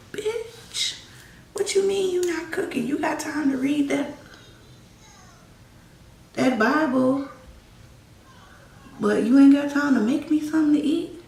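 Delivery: high, strained mock tirade with a whispered start; hissed insult, then a high, angry harangue; imitating his angry rant. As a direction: spit it out like the man berating her over dinner. Abuser yelling about cooking.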